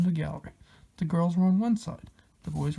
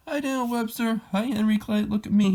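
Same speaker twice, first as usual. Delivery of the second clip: hollered; 6 semitones higher than usual. Acted. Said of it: "he hollered".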